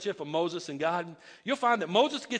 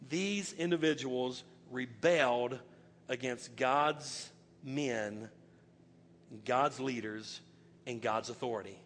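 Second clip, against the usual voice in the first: much lower, softer, slow; solemn low emphasis; 9 semitones lower, 7 dB quieter, slower than usual. Real, not acted. Preacher warning the congregation, low and grave. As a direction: press it home gravely.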